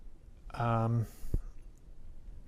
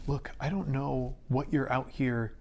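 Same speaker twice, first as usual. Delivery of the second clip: nervous, pleading, words tumbling faster; shaky plea; 3 semitones higher than usual. Acted. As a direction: plead with her, voice unsteady. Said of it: "and shakily goes".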